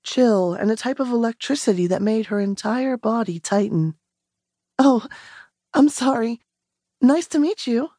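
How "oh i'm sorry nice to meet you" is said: a higher, rushed polite retreat; flustered Rowan. Acted. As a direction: back off politely, rattled. Rowan flustered, backing away.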